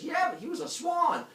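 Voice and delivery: high, loud hammed-up protest; Leto. Girl excuses herself to jealous wife, high protest.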